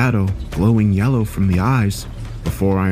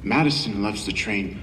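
airy voice like the wind; 7 dB quieter than usual. Acted. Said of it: "his voice like the wind".

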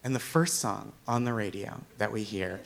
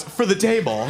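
firm great aunt; 8 semitones higher, 5 dB louder than usual. Retold or imitated. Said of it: "she goes".

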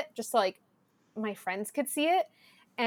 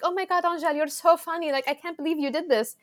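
amused friends; 5 semitones higher than usual. Retold or imitated. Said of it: "her friends laughing".

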